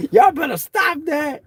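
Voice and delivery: high slow mock mama warning; imitating mama. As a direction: drawl it out like a smirking mom. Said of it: "she kinda smirked about it".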